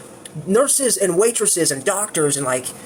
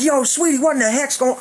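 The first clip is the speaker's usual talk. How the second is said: laughing disbelief; 6 semitones higher than usual. Retold or imitated. Retelling the shock of the bite.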